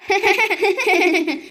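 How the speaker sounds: gleeful gossip's chuckle; laughter. Acted. Two neighbours gloating over a rival, laughing. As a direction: laugh along with a gossip partner.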